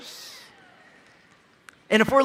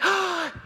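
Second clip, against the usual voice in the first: mock gasp; 11 semitones higher than usual. Child screams at shooting star.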